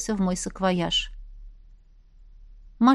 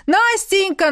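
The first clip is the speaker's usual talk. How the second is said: short loud call, higher; quick call; 10 semitones higher, 5 dB louder, slower than usual. A narrator's reading. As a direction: call her name once, quickly. Ex calling from the street. (короткий громкий оклик)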